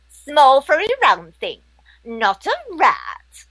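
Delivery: lightly voiced ditzy airhead, drifting and dreamy; a hint of the airheaded Bubble, British and scatterbrained; Bubble from Ab Fab. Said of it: "she sounds a bit like this".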